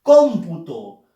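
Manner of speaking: "Cómputo" lento, con "Cóm" muy fuerte; acento en antepenúltima sílaba. Shown as a demonstration. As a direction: golpea la primera sílaba de "Cómputo". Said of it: "llevan su fuerza de voz en la". ("Cómputo" pausado, cargando la voz en "Cóm")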